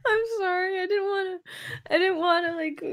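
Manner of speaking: high, small, crying voice; tearful apology. Real, not acted. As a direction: apologise haltingly through tears. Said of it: "Yes, I am crying".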